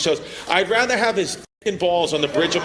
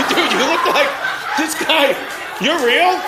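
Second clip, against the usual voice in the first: laughing; 6 semitones higher than usual. Real, not acted. Crowd work, cracking up at guy.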